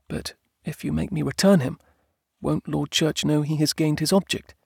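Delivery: high-pitched, calm wife; reasoning wife. Acted. Wife reasons with husband about rival, calmly.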